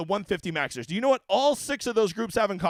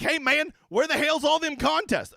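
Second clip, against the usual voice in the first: a hint of a twangy yokel asking; lightly voiced country bumpkin, higher; mock yokel voice; 6 semitones higher than usual. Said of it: "Quit talking like that".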